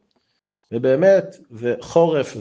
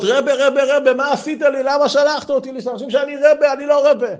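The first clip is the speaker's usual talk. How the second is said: crying plea; 11 semitones higher than usual. Acted. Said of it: "הוא התחיל לבכות".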